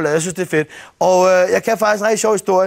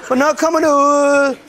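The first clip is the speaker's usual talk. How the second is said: higher, slow whiny calling through a door; nagging girlfriend; 3 semitones higher, slower than usual. Retold or imitated. Girlfriend knocking on the door to her boyfriend, slow and whiny. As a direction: plead through the toilet door. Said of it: "banker på døren".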